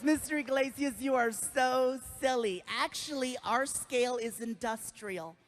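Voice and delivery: soft, lightly sweet nurse; a gushing fan nurse, lightly voiced. Nurse gushing to a famous patient, lightly voiced. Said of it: "She goes".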